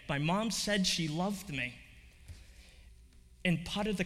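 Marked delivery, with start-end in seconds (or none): 0.1-1.7 slower, lingering on each word; slow tearful repeat. Retold or imitated. Girl repeating her mother's words to the nun, slow and tearful. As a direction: repeat it slowly, letting it sink in. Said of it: "And she repeated again".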